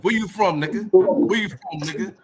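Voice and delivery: loud call-out. Real, not acted. Calling out a rival online.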